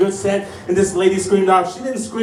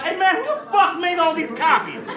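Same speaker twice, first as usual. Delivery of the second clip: imitating store lady; 9 semitones higher than usual. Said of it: "she was just like".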